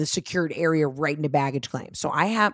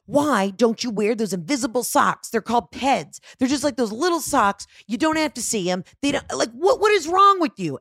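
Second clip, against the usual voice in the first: yelling at mom; 4 semitones higher than usual. Retold or imitated. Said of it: "yelling at my mom".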